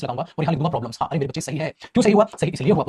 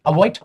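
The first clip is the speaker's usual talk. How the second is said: "अवॉइड" said alone, louder, with a rise; stress on avoid; 6 dB louder, slower than usual. Shown as a demonstration. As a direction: punch the single word "अवॉइड". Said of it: "अवॉइड hissing sound".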